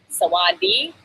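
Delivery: "sawadi" stretched out slowly; slow syllables. Shown as a demonstration. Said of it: "I'll say it really slow".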